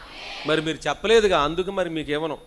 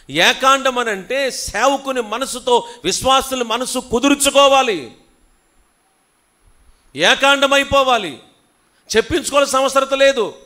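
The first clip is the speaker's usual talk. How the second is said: full-force preaching; 9 semitones higher, 11 dB louder than usual. Acted. Pastor scolding the congregation, loud and high. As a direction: hammer the point home to the congregation.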